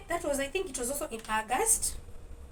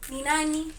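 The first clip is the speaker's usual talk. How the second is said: a sharp, louder, annoyed "who is it?"; irritated answering the phone; 4 semitones higher, 4 dB louder than usual. Retold or imitated. Woman irritated by a caller who won't say his name, annoyed. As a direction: snap it out like you're annoyed at an unknown caller. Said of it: "I get it irritated".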